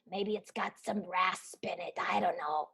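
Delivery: soft shrugging whisper; breathy throwaway aside. Real, not acted. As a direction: let it fall to a whisper.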